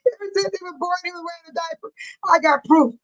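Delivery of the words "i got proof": "proof" said louder, insisting; emphatic. Real, not acted. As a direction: plant it firmly, louder. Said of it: "I'ma show y'all the proof".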